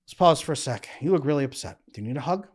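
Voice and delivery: a partner softly calming an upset woman, gentle and soothing. Acted. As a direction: talk her down from being upset, softly. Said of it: "you're upset, and he goes".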